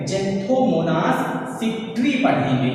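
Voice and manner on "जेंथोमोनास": "जेंथोमोनास" slowly, opening on J; drawn-out teacher's "जेंथोमोनास", J at the start; X as J sound. Shown as a demonstration. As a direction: model "जेंथोमोनास" slowly with no "eks". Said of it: "हम इसे क्या पढ़ेंगे?".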